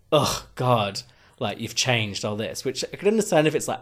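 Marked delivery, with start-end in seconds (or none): 0.1-2.6 imitating an exasperated "ugh" from folks back home; eye-rolling disapproval. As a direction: drag it out, mildly fed up. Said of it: "eye rolling and just like, ugh".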